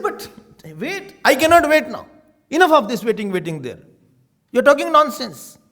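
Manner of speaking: mock-stern refusal, loud; angry husband. Husband snapping at pleading wife, loud mock anger. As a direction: scold her, impatient.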